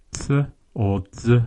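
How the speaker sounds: "ts" unvoiced, then "z" buzzed. Shown as a demonstration. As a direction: contrast ts with a voiced z. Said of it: "Z is".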